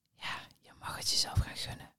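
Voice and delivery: soft whispered aside. Real, not acted. Coach telling the viewer to treat herself, whispered. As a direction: whisper it like a secret permission. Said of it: "ik ga nu fluisteren".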